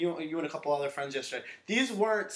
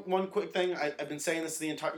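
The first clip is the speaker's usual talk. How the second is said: ordinary talk, nothing marked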